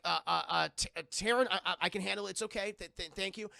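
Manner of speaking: hammed-up nervous stutter; mock flustered. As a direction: stumble over the words, acting rattled. Acting flustered Jean.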